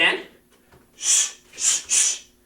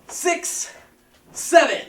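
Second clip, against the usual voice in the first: loud, high counting of reps; energetic coach calling out reps; shouted count; 10 semitones higher, 6 dB louder, much slower than usual. Real, not acted. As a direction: bark out each number to drive the class.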